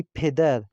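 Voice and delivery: پدر said as "phedar", the opening p released with a strong puff of air; پدر with an aspirated ph at the start; Persian aspirated p. Shown as a demonstration. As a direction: give the p in پدر a breathy aspirated burst, Persian style. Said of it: "پے کی آواز ... اس کو پھے کی آواز نکالی جاتی ہے".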